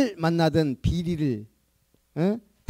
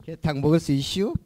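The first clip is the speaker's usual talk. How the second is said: Chungcheong dialect. Shown as a demonstration. 충청도 사투리로. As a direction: ask it like a Chungcheong local. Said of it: "충청도 말로".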